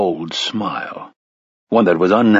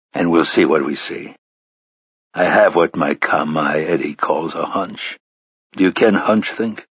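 a lightly lowered, stern gunslinger; low gunslinger voice; 3 semitones lower than usual. Acted. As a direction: speak low and measured. Roland's lines voiced low.

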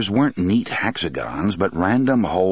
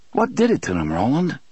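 Eddie's alarmed voice; 7 semitones higher than usual. A narrator's reading.

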